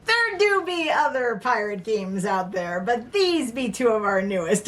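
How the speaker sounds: pirate talk with a light touch; a hint of a pirate voice. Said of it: "Can I stop talking like a pirate now?".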